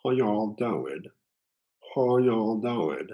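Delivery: slow, drawled Southern greeting; a tentative Southern accent. Pretend. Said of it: "I'm trying a Southern accent right now".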